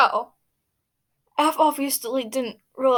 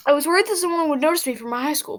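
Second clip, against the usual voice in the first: quick, brighter retake; faster reread; 4 semitones higher, faster than usual. Shown as a demonstration. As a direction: read it again, quicker. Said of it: "I can't speak".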